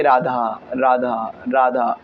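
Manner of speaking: low, measured chant of the name; नाम जप. Shown as a demonstration. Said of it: "उच्चारण करते रहिए". (धीमे सुर में नाम जप)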